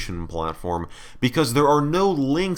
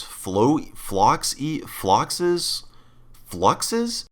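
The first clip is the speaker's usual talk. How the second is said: unsure guessing; 4 semitones higher, much slower than usual. Real, not acted. Struggling to pronounce brand name.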